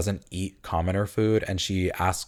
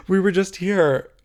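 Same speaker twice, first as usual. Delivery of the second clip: much higher, slow incredulous repeat; high drawn-out exasperation; exasperated; 10 semitones higher, 4 dB louder than usual. Retold or imitated. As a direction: stretch it out in disbelief. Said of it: "I was like".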